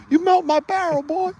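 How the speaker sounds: high, far-off mock sergeant bark; imitating an irate drill sergeant; angry drill sergeant. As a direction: scold him like a sergeant. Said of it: "The drill sergeant that checked out my M sixty".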